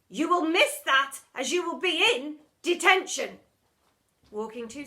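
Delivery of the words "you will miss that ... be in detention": loud, final refusal; cold teacher. Acted. Miss Seeth refusing pupil's plea, loud. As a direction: crush the plea flat.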